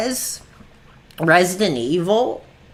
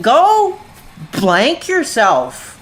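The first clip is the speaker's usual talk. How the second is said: mock lash-out; 2 semitones higher, much slower than usual. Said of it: "Like, I lash out".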